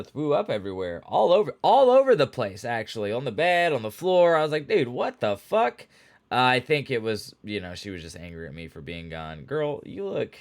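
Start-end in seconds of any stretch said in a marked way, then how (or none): 4.7-5.9 higher, drawn-out dismay; outraged disbelief at the mess; incredulous. Retold or imitated. Owner finding vomit on the bed, incredulous. Cat threw up everywhere.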